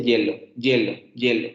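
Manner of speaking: HIELO said with a firm consonant Y, "JYEH-lo"; hard Y variant. Shown as a demonstration. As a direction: start each HIELO on a strong Y, no vowel I. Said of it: "hay gente que literalmente dice".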